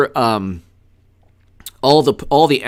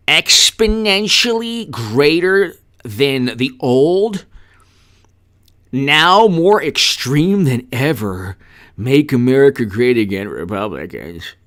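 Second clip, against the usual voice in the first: a hint of a marketing executive pitching; mock PR executive; slower than usual. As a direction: sell the brand idea like an ad man, drawn out. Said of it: "then they have the public relations executives".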